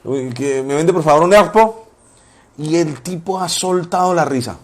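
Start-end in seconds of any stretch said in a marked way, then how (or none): 0.3-1.9 "erpo" with the R softened and untrilled; childhood mispronunciation. Retold or imitated. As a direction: act out the kid failing the R in "erpo". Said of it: "Tenía un problema en mi pronunciación". ("erpo" pronunciado mal, sin vibrar la erre)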